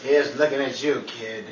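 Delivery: very low and soft, theatrical; hammy romantic leading man; dramatic movie hero. Acted. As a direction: drop low for a hushed movie line. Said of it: "cut the dramatics".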